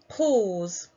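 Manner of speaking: teacher models the word pause slowly for pupils to repeat. Shown as a demonstration. Teacher to pupils, modelling the word: pause clearly enunciated. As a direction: pause said clearly for the class to echo. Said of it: "Repeat after me".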